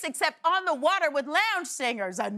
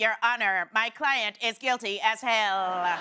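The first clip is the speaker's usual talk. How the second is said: low, flat deadpan monotone, "hell" drawn out; 5 semitones lower than usual. Acting out ChatGPT as a rapper's lawyer in court, monotone ChatGPT voice.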